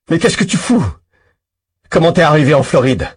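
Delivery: a loud, high, incredulous shout; shouting in disbelief; calling out. Acted. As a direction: yell the question at him from your hiding place. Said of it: "Je l'interpelle depuis ma cachette".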